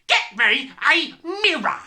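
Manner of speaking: loud yell, word by word; emphatic yelling. A narrator's reading. Father repeats his demand, yelling emphatically. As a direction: punch out each word of the order. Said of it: "the father yelled".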